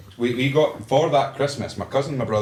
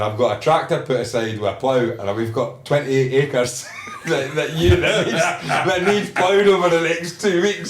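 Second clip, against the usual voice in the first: can't keep a straight face telling the dad's line; giggling while quoting the farmer dad; laughing through the quote; 5 semitones higher, 4 dB louder than usual. Retold or imitated. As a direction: quote breaks into laughter, much higher. Retelling dad's farm orders.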